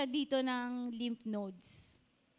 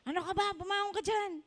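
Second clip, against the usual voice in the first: mock scolding; 5 semitones higher than usual. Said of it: "Ginaganon niya".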